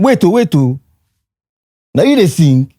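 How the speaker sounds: high-pitched mock astonishment; retold high exclamation of surprise; amazed interruption. Retold amazed reaction to singing.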